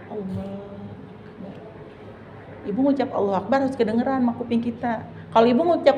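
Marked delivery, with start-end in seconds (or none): 0.1-1.5 slow, very soft takbir. Shown as a demonstration. Teacher shows takbir together with intention. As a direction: draw it out quietly. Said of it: "Bareng sambil niat".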